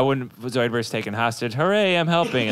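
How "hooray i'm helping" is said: Zoidberg voice. Retold or imitated. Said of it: "big Zoidberg soundbite".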